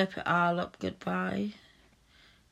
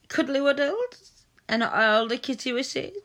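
put-on baby talk; 4 semitones higher, 4 dB louder than usual. Cooing baby talk to partner.

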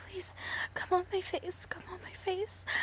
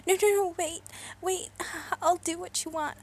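loud frantic pleading; desperate loud begging; panicked begging; 7 dB louder than usual. Acted. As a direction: plead urgently to stop it. Begging not to be shot.

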